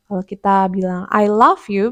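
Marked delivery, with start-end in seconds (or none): 1.1-1.9 "love" said as /laf/, like "laugh"; "I love you" said so it means "I laugh at you"; wrong pronunciation. Shown as a demonstration. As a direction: mispronounce "love" so it sounds like "laugh". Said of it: "berarti aku tertawa".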